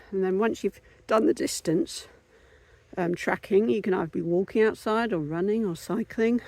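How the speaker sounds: puffing out words between breaths; short of breath after the climb; gasping for air. Real, not acted. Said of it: "out of breath now walking up this hill".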